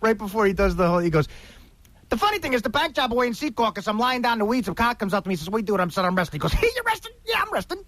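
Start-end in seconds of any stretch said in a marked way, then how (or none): 2.1-7.8 a light Joe Pesci, breathy and wound up; Joe Pesci impression. Doing Joe Pesci for the radio hosts, lightly voiced. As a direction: play Pesci telling his tough-guy story. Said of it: "the way to do a Joe Pesci impression".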